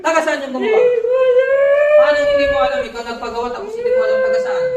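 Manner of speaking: furious shouted interrogation of the witch; angry shout. Real, not acted. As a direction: bark the question at the spirit. Demanding the witch's origin.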